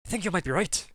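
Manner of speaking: lightly flippant, offhand remark. Acted. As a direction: toss it off like it means nothing. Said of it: "completely flippantly".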